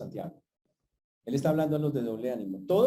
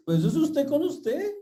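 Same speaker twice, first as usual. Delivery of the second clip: emphatic; 13 semitones higher, 6 dB louder than usual. Real, not acted. Pastor rebuts self-pity.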